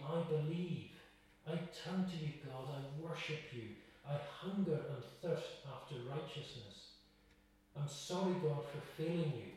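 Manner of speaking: earnest prayer voice, unhurried; model prayer. Acted. Preacher voicing a congregant's prayer to God, sincere. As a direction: pray it sincerely as an example.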